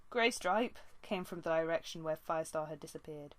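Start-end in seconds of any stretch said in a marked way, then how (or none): 0.1-0.8 yowl. A narrator's reading. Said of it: "A yowl of".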